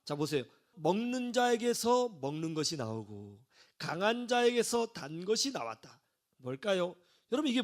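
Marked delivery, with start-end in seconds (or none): 0.7-6.0 slow, measured riddle recital; a touch of formal, drawn-out recitation. Acted. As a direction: pose the riddle slowly, phrase by phrase. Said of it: "제 수수께끼 나갑니다".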